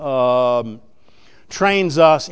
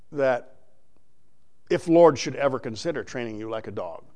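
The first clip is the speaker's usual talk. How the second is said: normal talking voice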